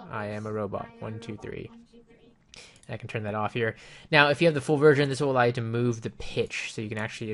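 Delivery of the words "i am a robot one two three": software robot filter, plainly delivered; male robot voice. Shown as a demonstration. Reviewer demos the robot preset to viewers, robot voice. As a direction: say it through the robot effect. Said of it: "there's my robot voice".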